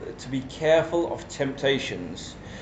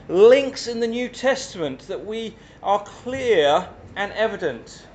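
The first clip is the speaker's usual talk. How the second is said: teacher voice; 5 semitones higher than usual. Real, not acted. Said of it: "I'll use my teacher voice".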